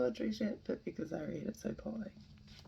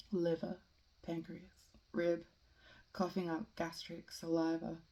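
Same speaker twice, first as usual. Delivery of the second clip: measured poem reading with deliberate pauses; solemnly recited free verse; poetry reading. Acted. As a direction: read it line by line, letting each image stand. Reads a poem aloud.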